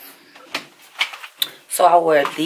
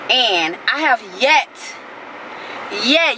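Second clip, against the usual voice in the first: raised, heated rant about the missing results; real anger; 4 semitones higher than usual. Real, not acted. Venting to viewers about CVS test results, fed-up angry rant. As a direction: let the frustration push the pitch up. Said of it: "I'm so mad right now".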